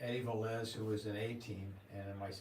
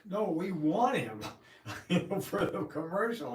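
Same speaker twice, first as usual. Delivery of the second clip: high, loud and emphatic; insist, punching the word want; excited retold agent; 8 semitones higher, 7 dB louder than usual. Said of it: "They said".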